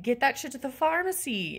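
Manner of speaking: firm but contained exasperation; exasperated demand. Acted. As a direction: tell off the warehouse guy, holding back. First take of exasperated demand.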